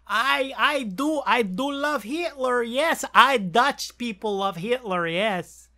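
put-on a faint, half-hearted Dutch accent barely off his own voice; bad Dutch accent. Mocking a streamer's joke, in a bad Dutch accent. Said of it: "That was the worst Dutch accent".

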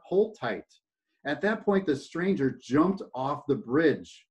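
steady read-aloud storytelling voice; story narration. A narrator's reading. Speaker reading a parable to a talk audience, storytelling voice.

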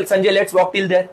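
slow, gentle invitation; slow old lady. Retold or imitated. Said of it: "बोलते". (धीमा, कोमल बुज़ुर्ग न्योता)

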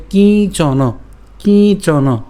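"কিঞ্চন" slowly, with nasal iyo before চ; Sanskrit pronunciation. Shown as a demonstration. Teacher applying the iyo sound, slow careful demo. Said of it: "সংস্কৃত উচ্চারণ হয় আমাদের ইয়".

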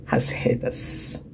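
soft, slow unvoiced whisper; whispered assurance. Real, not acted. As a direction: hush it like a secret truth. Preacher hushes for emphasis.

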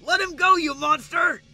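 high, loud alarm; scared bully crying out; panicked shout. Acted. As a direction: yell in sudden fright. Bully sees his friend grabbed.

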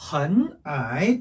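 헌아이 with a rising second tone on 헌; 앞 삼성을 이성으로. Shown as a demonstration. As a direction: draw out 헌아이, 헌 going up and 아이 dipping. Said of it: "앞에를 이성으로 읽어준 거고요". (헌아이의 헌을 이성으로 올려서)

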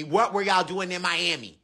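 deep alien voice, normal pace; low steady alien question; alien interrogator. Acted.

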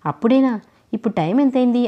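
mildly startled that it is time already; a touch of wide-eyed surprise; surprised. Acted. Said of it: "Chidambaram ఆశ్చర్యంగా".

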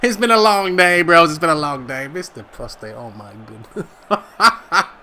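cracking up. Real, not acted. Apologising while cracking up at own joke.

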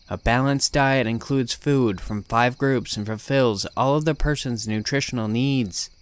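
flat, lifeless monotone nurse. Acted. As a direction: recite it like a dead-eyed nurse. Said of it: "She answered in a very monotone voice".

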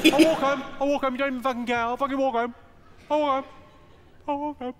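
high, loud stroppy cry; storming off. Acted. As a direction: fling the words out, high and huffy. Drunk girlfriend storming off.

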